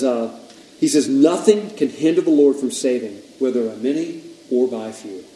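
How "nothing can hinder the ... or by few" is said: loud, ringing scripture reading; emphatic declaration. Real, not acted. Preacher reading the verse to the room, emphatic. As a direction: proclaim the verse, easing off at the end.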